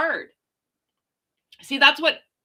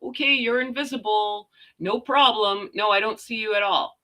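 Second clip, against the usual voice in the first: playing along with a toddler. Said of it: "pretend and be like".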